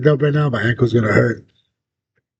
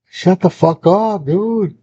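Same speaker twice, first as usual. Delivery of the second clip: higher, drawn-out telling-off; mock exasperated scolding; 4 semitones higher, much slower than usual. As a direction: act out scolding noisy dogs, half asleep. Acted yelling at his dogs.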